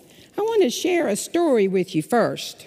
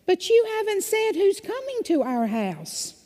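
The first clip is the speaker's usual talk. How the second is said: a lightly voiced cow, higher; 11 semitones higher than usual. A narrator's reading. Pastor voicing the cow in a children's story, lightly higher. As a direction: ask it in a high, puzzled cow voice. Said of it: "The cow says".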